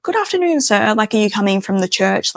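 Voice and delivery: polite cop voice. Retold or imitated. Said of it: "he was on his good behavior".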